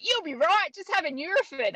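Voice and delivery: put-on light Australian accent, high and breezy. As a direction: imitate the Australian mate brushing it off. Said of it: "he was an Australian".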